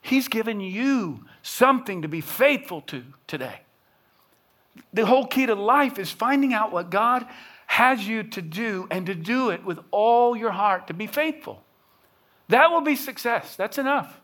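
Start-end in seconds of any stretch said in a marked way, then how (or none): 4.9-14.2 raised, ringing preacher's voice; preaching at full force. Acted. Pastor urging the congregation to faithfulness, preaching hard. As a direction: hammer it home from the pulpit. Preacher drives home the point.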